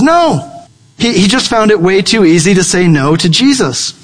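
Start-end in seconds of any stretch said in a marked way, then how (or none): 0.0-0.4 sharp no. Retold or imitated. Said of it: "Peter says".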